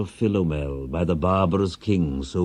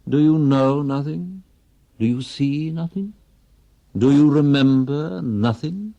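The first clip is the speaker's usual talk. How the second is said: high, louder, shrill-edged demands; rising frustration that tips into accusation; exasperated wife; 8 semitones higher, 5 dB louder than usual. Acted. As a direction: hammer at him with each question. Wife badgering silent husband.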